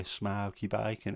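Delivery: slow, drawn-out Brummie "smoky bacon"; Brummie accent. Retold or imitated. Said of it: "I'd just say to her".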